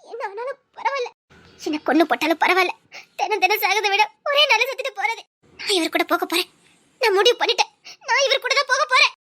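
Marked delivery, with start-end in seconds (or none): 0.1-5.2 crying while deciding; words broken by sobs and bitter laughs; tearful, half-laughing despair; tearful resolve. Acted. Deciding through tears to elope.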